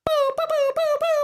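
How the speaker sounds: very high-pitched repeated boops; squeaky sound effect, boop after boop; imitated falling-rate noise. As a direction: make tiny high cartoon beeps. Imitating interest rates dropping to zero.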